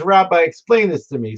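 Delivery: a touch of Southern judge questioning a rabbi; imitated Southern judge. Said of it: "spoke like he was twelve Southerners from Alabama".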